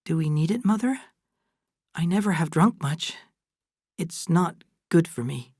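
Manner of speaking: a touch of nervous reluctance. Acted. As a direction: demur timidly, voice lifted a little. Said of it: "Kate said nervously".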